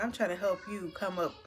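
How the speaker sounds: pushing the words out through rising tears; near tears. Real, not acted. Telling a friend how her partner ignores her, near tears. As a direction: voice catching with real upset.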